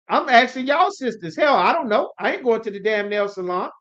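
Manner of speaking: normal talking voice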